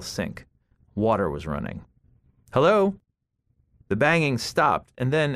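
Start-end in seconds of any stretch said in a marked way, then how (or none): 2.5-2.9 high, loud questioning call; raised voice, rising sharply in pitch. A narrator's reading. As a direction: call out to see if anyone's there. Calling to unseen person in apartment.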